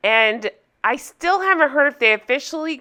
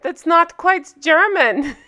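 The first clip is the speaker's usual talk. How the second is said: higher-pitched, hammed-up German accent; badly faked German accent, pitched up; 6 semitones higher than usual. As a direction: put on a silly, not-quite-German accent. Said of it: "in my German accent".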